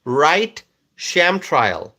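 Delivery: drawn-out slow model phrase; slowly dictating the phrase for viewers to copy; slow demo. Shown as a demonstration. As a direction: slowly dictate the words to type. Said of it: "If you think it was a sham trial".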